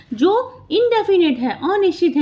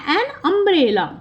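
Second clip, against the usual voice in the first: slow example reading; 3 semitones higher, much slower than usual. Shown as a demonstration. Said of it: "sound देखिए".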